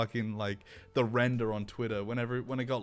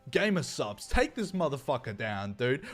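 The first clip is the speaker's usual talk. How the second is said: higher, worked-up complaint with rising ends; mock outraged appeal; 5 semitones higher, 3 dB louder than usual. Streamer mimicking a call to a sponsor, mock outrage. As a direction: act out an indignant tattletale.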